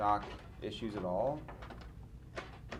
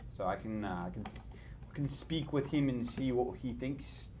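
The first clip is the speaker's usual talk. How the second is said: a lightly put-on British accent, pitched up at the start; weird British accent. Streamer pitching a Corsair partnership to Burke in a mock British accent. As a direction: slip into a half-serious British accent. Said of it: "You go into some weird accent".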